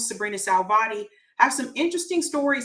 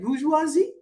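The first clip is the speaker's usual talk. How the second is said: incredulous; 4 semitones higher than usual. Retold or imitated. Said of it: "I was like".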